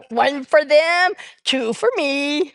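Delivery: laughing through a slow, high quip; laughing joke. Retold or imitated. Joking with the audience about stealing pills, laughing. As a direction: giggle out the punchline slowly.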